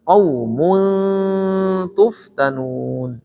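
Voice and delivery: "Qaumun tuftanun" with a long hum before TUF; slow chanted "Qaumun tuftanun"; correct flat nasal. Shown as a demonstration. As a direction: round "mu", then hold a flat n in "Qaumun".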